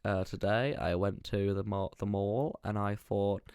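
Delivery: soft, slow, shaky-aim South African accent; badly faked South African, slow and careful; South African accent attempt. Shown as a demonstration. Podcaster tries South African on request, slow and off-target accent. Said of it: "Give me a South African".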